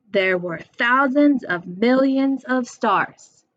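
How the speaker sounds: slow beat on THOUSANDS, MILLIONS, STARS; sing-song scanning of the poem line; stressed syllables marked. Shown as a demonstration. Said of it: "That's three".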